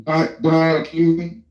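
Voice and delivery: muffled, garbled connection audio; sounds underwater. Real, not acted. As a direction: voice like it's coming through water. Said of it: "you sound like you're underwater".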